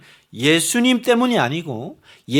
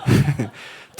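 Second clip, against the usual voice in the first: laughing; 5 semitones lower than usual. Real, not acted. Joking self-deprecation.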